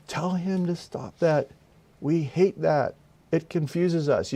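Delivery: high, slow, strange pleading demon voice. Retold or imitated. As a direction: voice the demons begging him to stop. Demons speaking through the man.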